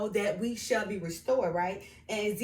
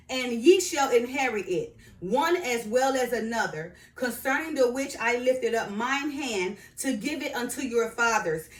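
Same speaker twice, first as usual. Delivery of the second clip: scripture reading; 3 semitones higher, 4 dB louder than usual. Acted. Reading the land's borders to viewers, scripture reading. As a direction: proclaim the verse phrase by phrase.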